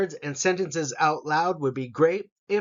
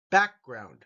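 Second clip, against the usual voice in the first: Background with back stressed, lower; 4 semitones lower than usual. Shown as a demonstration. Teacher modelling Background for students, stress on back. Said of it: "The back gets the emphasis".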